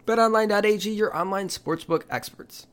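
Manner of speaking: upbeat sponsor read. Acted. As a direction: read it like a radio spot. Reads a sponsor ad.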